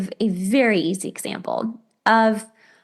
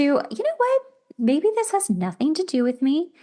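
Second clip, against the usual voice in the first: relieved reframe; 6 semitones higher than usual. Pretend. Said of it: "bad, scary thought of ... to".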